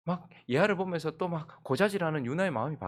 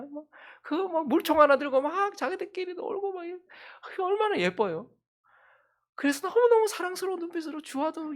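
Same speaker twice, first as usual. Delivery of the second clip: much higher, cooing over the little one; doting gush; 11 semitones higher, 3 dB louder than usual. Retold or imitated. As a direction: coo like a smitten parent. Describes family adoring the baby. (훨씬 높은 목소리로 아기를 예뻐하듯)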